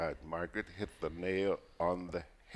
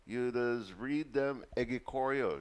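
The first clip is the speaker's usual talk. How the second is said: higher-pitched country caller imitation; put-on rural woman's voice, raised pitch; rural vendor woman; 7 semitones higher than usual. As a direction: imitate a market vendor speaking in dialect. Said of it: "somebody from the rural districts".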